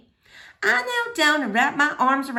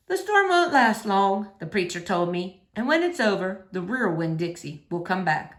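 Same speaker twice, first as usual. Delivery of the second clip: reassuring; 4 semitones lower than usual. Acted. Preacher reassures girl.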